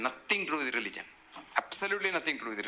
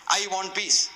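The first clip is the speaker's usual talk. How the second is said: higher, louder I want peace; insistent demand; 6 semitones higher, 4 dB louder, slower than usual. Retold or imitated. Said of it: "Say that again".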